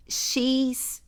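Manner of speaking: "cheeseburger" split into "xis... búrguer"; pronúncia brasileira pausada. Shown as a demonstration. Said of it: "a palavra". ("cheeseburger" bem separado, "xis", pausa, "búrguer")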